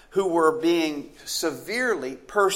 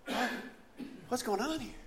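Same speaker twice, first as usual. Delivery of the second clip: bewildered; 8 semitones higher, 14 dB quieter than usual. Acted. Thinking to himself.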